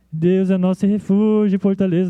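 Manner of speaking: flat, unenthusiastic, as if without spirit; discouraged, listless reading. Shown as a demonstration. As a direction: read it like someone who has lost heart. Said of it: "Não era cantado assim desanimado". (leitura desanimada, sem vida)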